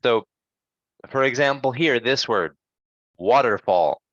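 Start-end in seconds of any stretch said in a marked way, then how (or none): 3.2-4.0 "waterfall" with a quick, light er in the middle; unstressed er. Shown as a demonstration. Teacher showing unstressed er, "waterfall" with its er kept quick. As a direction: punch the start of "waterfall", pass quickly over er. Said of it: "the sound of er is quick".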